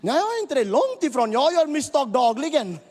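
loud and high, hammering every phrase home; preaching at full force. Acted. Preacher driving the congregation toward change, shouting high. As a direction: preach it out over the room, rising.

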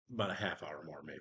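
whispered aside; whispering. Real, not acted. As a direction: hush it to the table. Side note to other players.

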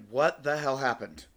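slow, emphatic retold bafflement; drawn-out disbelief. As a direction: stretch each word out in disbelief. Baffled reply to screaming caller.

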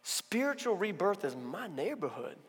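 loud, slow, building proclamation; Jesus answering Nicodemus with conviction; Jesus speaking. Retold or imitated. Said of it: "Jesus says".

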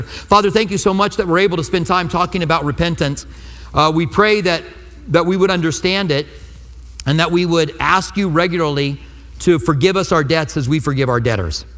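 earnest congregational prayer voice; steady, pleading prayer to close the sermon; closing prayer. Acted. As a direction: lead the room in prayer.

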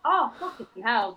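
slow, tearful curse; crying. Retold or imitated. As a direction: let the tears break in. Retold breakdown with mum.

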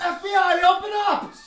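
loud, high raid shout; grave federal agent. Pretend. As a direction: yell like an agent storming in. Kicking in the door.

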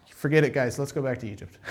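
mocking the spies. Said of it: "ten of them say".

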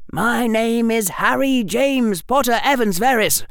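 a confident, lightly voiced boy; smug boy, polite and sly; young boy voice. Harry voiced in story.

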